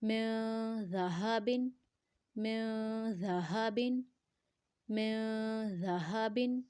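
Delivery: "م" hummed for two seconds before "ذہبن"; held nasal ikhfa. Shown as a demonstration. Teacher models ikhfa before dhaal, held nasal sound. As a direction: hold the nasal "م", then say "ذہبن" evenly. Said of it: "دو second تک لمبا کریں گے".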